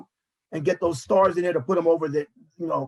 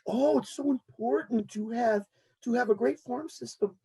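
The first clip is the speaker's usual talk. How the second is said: mocking, soft and slow; 3 semitones higher, 4 dB quieter than usual. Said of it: "even the Yankees have fallen for this".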